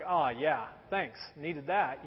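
low, soft, unimpressed aside; deadpan retort. Retold or imitated. Customer brushing off useless news from a stranger, deadpan. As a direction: drop it low, dryly thankful.

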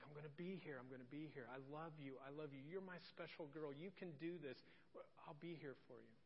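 soft, gentle soothing repetition; reassuring. Retold or imitated. Father to crying daughter in the waiting room, softly reassuring.

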